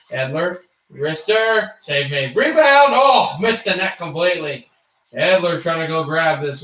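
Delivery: mock hockey commentator call; live play-by-play. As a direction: call the game like a broadcaster.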